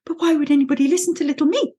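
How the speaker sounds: worried Piglet. Retold or imitated. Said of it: "he's the one that's a bit like".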